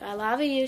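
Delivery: "love you" said as "lava you"; punning lava pronunciation. Retold or imitated. Grandchild greeting grandma with the pun, "love you" as "lava you". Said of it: "but it was like".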